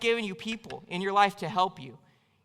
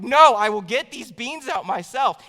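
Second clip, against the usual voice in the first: stubborn shout; 2 semitones higher, 7 dB louder, slower than usual. Retold or imitated. Refusing wife's help again.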